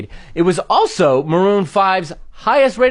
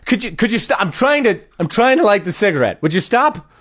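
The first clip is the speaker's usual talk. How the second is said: slightly raised, halting comic protest; mock exasperation; 2 semitones higher than usual. Smoker trying to light a cigarette, mock exasperation. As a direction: break off and restart, annoyed. Acts smoker whose match keeps being extinguished.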